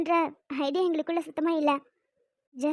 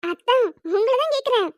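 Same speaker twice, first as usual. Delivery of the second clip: insistent asking; 5 semitones higher than usual. Acted. Girl pressing her sister about where Karthik is, insistent. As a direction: demand an answer eagerly.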